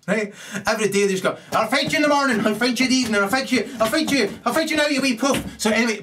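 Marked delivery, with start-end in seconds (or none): 1.5-5.5 high-pitched, scrappy repeated dare; mock brawler's challenge. Kurds challenging all comers every day, mock belligerence. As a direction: goad them in a raised, combative voice.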